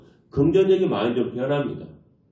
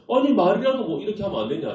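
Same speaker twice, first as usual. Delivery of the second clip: higher, exasperated pushback to a scolding; indignant retort; 6 semitones higher than usual. Retold or imitated. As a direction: talk back to an angry older brother. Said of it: "그 형이 확 화를 내니까". (형에게 억울하게 따지는 말투)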